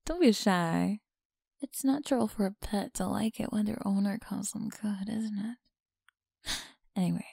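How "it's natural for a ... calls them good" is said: teasing close whisper; breathy whisper to a listener. Acted. Whispers to her pet.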